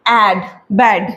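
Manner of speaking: each sound very slow before the whole word; slow phonics blending. Shown as a demonstration. Teacher blending बैड and पैन slowly for parents. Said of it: "ए के sound से पढ़ना है".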